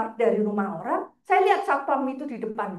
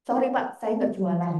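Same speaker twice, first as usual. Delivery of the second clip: low-pitched, composed retold apology; polite denial; 6 semitones lower than usual. Visitor telling the guard they sell nothing, calm and low. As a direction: deny it politely, keeping the pitch down.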